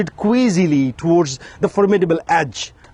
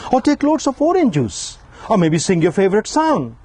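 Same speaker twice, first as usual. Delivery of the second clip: woman's voice; 5 semitones higher than usual. Retold or imitated. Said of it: "a woman said".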